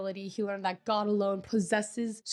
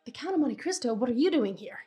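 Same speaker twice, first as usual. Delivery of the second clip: higher-pitched mock surprise; verbaasde uitroep; 3 semitones higher than usual. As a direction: act out startled recognition. Danglars sees the Count appear.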